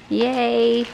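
a high, loud burst of joy; excited yay. Real, not acted. Thrilled by the paper she sent, squealing yay. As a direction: cheer at the surprise gift. Delighted by more paper gift.

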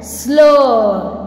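"slow" as a drawn phonics blend; blend sound demo. Shown as a demonstration. Teacher sounding out S L for students, phonics demo. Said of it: "S L".

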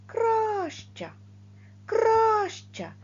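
Краща with a long, loud stressed кра; stretched first syllable. Shown as a demonstration. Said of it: "Довше ми протягуємо перший склад".

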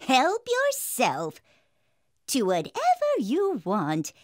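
put-on fearsome old hag. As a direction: lure the children in, lightly voiced hag. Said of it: "a fearsome old hag appeared".

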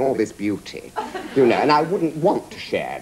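laughing, admiring coo; mock vanity. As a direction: gaze at yourself and sigh over it. Mock admiring his body.

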